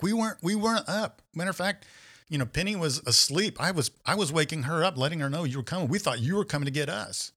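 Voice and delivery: high, protesting retold denial; defensive roommates. Roommates denying to Scott they were at the door, high and protesting. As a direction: plead innocence in a lifted voice.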